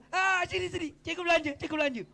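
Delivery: high, eager calling over; suddenly generous teacher. Acted. Preacher playing teacher offering pupil a treat, high eager call. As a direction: call the pupil over brightly, pitched well up.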